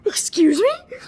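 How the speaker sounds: laughing, whispered excuse me; shocked whisper. Real, not acted. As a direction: gasp it out in a high breathy whisper. Shocked reaction to Verity watching.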